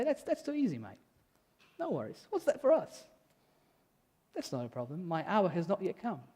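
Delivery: lightly put-on Australian accent, relaxed and casual; a laid-back Aussie shrugging it off, only a hint of the accent; Australian Jesus. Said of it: "If Jesus was Australian, he would say".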